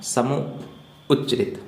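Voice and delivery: समूह उच्चरित stretched syllable by syllable; teacher drawing out समूह उच्चरित so pupils can write it; slow, spelled out. Shown as a demonstration. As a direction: say समूह उच्चरित slowly, word by word, for the class. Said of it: "ठीक है ना".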